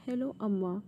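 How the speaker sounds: forcing a normal voice over crying; hiding tears. A narrator's reading. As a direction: try to sound normal while holding back tears. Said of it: "trying to speak in normal voice".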